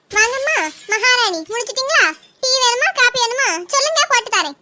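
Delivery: bow and scrape like she's a queen, dripping sarcasm; sarcastic welcome. Acted. Mother-in-law mocking her daughter-in-law, sarcastically sweet.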